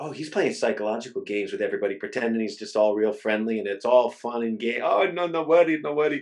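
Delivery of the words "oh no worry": imitated Italian accent. Quoting a man who pretends to be all friendly: italian accent. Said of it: "That's my Italian accent, by the way".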